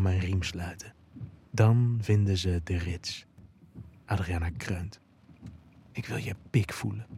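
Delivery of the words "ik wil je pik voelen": hijgend. A narrator's reading. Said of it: "hijgt ze".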